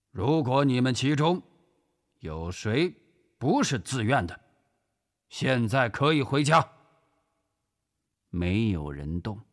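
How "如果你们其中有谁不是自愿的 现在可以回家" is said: earnest address in a raised pitch; sincere. Acted. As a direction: speak sincerely to the young recruits. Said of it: "真诚地说". (真诚地对新兵说)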